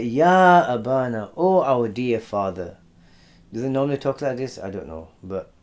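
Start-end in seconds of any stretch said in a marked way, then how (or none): 0.0-2.8 buttering up. Acted. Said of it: "they're buttering him up".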